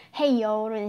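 a hint of a Texan hey y'all; Southern hey y'all. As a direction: toss off a casual Southern "ヘイヨール" greeting. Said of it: "その南部の話す人".

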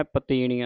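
"ਪਤੀਣੀਆਂ" with a nasal final aan; nasalised ending. Shown as a demonstration. Teacher demonstrates the bindi, nasal ending on "ਪਤੀਣੀਆਂ". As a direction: let "ਪਤੀਣੀਆਂ" end through the nose. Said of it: "ਬਿੰਦੀ ਦੇ ਨਾਲ ਉਚਾਰਨ".

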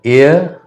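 एयर with the final R left unsounded; silent R. Shown as a demonstration. Teacher showing that R is not pronounced, silent R. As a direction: say एयर as one vowel glide, dropping the R. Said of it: "रॉ का यहाँ पर pronunciation नहीं होता है".

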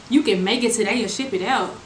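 repeating the seller's words in disbelief; incredulous repeat. Retold or imitated. Venting to her followers, repeating the seller in disbelief. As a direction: say it back like you can't believe it.

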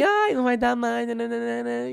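a high mocking imitation of the singer's dismissal. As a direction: brush it off lightly, as if you don't care. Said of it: "falando que eu tava demitida".

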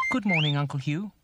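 high, whistly bird voice; whistling bird. A narrator's reading. Birdie greets the owl, whistling. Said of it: "Birdie whistled".

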